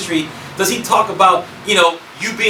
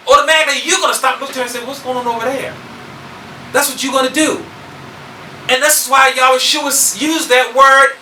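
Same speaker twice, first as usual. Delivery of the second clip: raised, pressing preacher's voice; forceful preaching; 8 semitones higher than usual. Real, not acted. Preacher explains why that word was used, forceful preaching. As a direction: press the point home from the pulpit.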